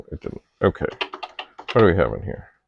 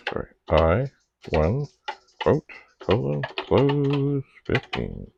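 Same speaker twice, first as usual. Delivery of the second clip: dictating; slower than usual. Real, not acted. Typing a command, reading it out.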